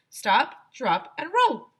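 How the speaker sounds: high, loud classroom chant; teacher shouting. A narrator's reading. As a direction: drill it into the kids. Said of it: "shouted Missus Meyer".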